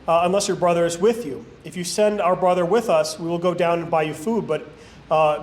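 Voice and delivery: even, deliberate reading with lightly weighted key words; scripture reading. A narrator's reading. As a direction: read Bible narrative aloud in measured phrases. Reads scripture aloud.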